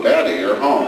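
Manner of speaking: low, deflated "Daddy, you're home"; the same words gone flat on seeing the spoon; "Daddy, you're home" said low and let down; dismayed child. Retold or imitated. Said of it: "Then she sees the spoon".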